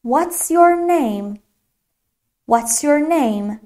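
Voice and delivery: "What's your name?" very slowly and clearly; slow model question. Shown as a demonstration. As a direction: drill it slowly for the class. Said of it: "مثلاً".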